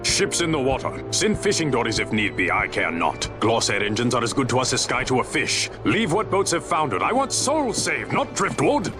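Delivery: urgent high-pitched command, rising as it goes; calling out orders. Acted. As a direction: call out rescue orders to the fleet. Captain calling out rescue orders.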